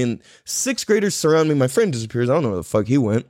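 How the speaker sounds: usual speaking voice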